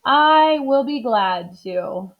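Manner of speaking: slow, heartfelt acceptance; mean every word; glad Amelia. Acted. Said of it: "said Amelia Bedelia".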